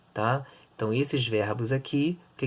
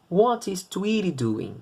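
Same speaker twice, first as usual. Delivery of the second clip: slow model question; 6 semitones higher, slower than usual. Shown as a demonstration. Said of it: "teacher models the question".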